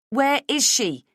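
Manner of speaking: loud, high, urgent demand; angry demand. Acted. Mother demanding her daughter.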